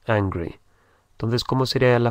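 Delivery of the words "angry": angry said low and soft, falling; model pronunciation, softer. Shown as a demonstration. Teacher's second modelling of angry, soft and clear. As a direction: quieter repeat of angry. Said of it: "Y enfadado es angry".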